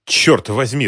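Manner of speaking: angry curse. A narrator's reading. Shopkeeper curses as gangsters arrive, angry. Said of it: "разозлился Ахмат".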